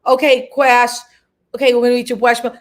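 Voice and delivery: mushy, slushy sibilants on "Quash"; lightly put-on impediment accent; speech impediment. Shown as a demonstration. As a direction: demo a comic speech impediment. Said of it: "talking regular or me talking".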